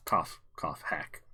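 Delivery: coughing. Acted. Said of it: "spice stuck in my throat".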